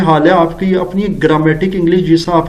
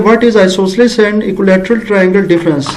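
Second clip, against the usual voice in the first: slow dictation; 2 semitones higher, much slower than usual. Shown as a demonstration. Teacher reads a wrong question aloud while writing, slow. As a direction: read the faulty question word by word, slowly. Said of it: "اب مسئلہ کیا ہے".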